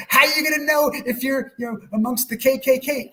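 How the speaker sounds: imitating a worried dad, shouted high and loud. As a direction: throw out the dad's warning as a mock shout. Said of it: "My dad's like".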